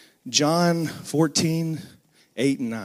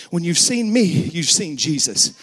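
with surety. Pretend. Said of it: "look them in the eye with a surety and say".

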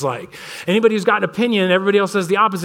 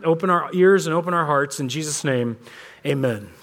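opening prayer; 2 semitones lower than usual. Real, not acted. Pastor leads opening prayer.

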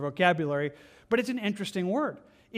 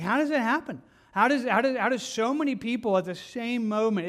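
high, louder disbelieving question; bewildered wonder; 5 semitones higher, 3 dB louder than usual. Retold or imitated. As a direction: ask it like you truly can't grasp it. People wondering at evil.

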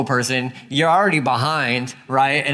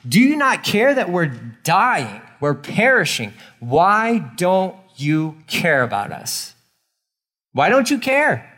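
desperate plea; 3 semitones higher than usual. Retold or imitated. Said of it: "they said to him".

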